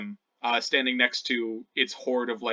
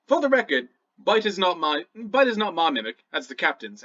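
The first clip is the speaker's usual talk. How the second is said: higher, emphatic goblin voice, settling down; goblin setting straight; 5 semitones higher, 4 dB louder than usual. Acted. Goblin jailer disowning the mimic, raised emphatic voice. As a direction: correct them firmly as the goblin.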